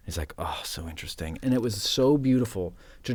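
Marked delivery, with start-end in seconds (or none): 0.4-1.4 low, soft retold murmur; quiet musing. Actor retells masters musing on set, quiet musing. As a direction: imitate an absorbed murmur, low.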